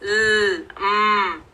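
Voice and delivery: ल and म without vowels; just the sound of ल, then म; bare phonics sounds. Shown as a demonstration. Teacher recapping the l and m sounds. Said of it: "जैसे हम फ में कर रहे हैं".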